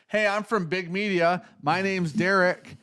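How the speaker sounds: a lightly voiced brash reporter; cocky reporter. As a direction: play a smug reporter picking a fight. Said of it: "some guy goes".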